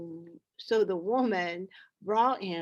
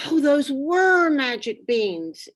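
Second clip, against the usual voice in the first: higher and louder, amazed; excited cry; 6 semitones higher, 7 dB louder than usual. A narrator's reading. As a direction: exclaim with wonder at the magic beans. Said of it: "Jack cried".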